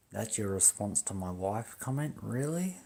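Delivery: disbelieving question, rising high at the end; incredulous. Retold or imitated. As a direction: question it in disbelief, pitch climbing. Retold incredulous reaction to police.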